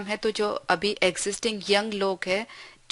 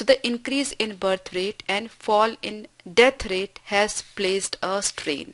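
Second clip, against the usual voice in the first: each word spaced out slowly for the class; slow dictation reading; much slower than usual. Shown as a demonstration. Teacher reading an example sentence to students, slow and deliberate.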